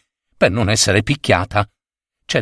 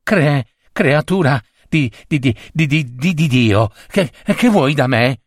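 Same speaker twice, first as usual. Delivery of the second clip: stammering fear; 3 semitones higher than usual. Acted. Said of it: "cominciò a tremare dalla paura".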